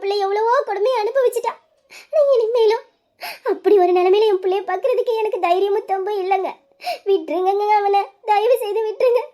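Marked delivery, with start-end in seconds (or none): 2.1-9.2 mother begging through tears; tearful mother's plea; tearful pleading. Acted. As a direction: plead with a catch of crying in the voice. Mother pleads for son, crying.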